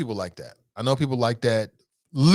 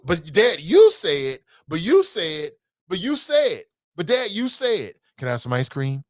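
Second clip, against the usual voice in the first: put-on whiny kid; 3 semitones higher, 4 dB louder than usual. Son whining about a promise.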